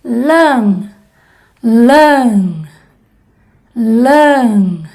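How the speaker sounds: nasal lân, with air through the nose; nasal vowel demo. Shown as a demonstration. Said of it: "como por ejemplo". (vocal nasal en lân)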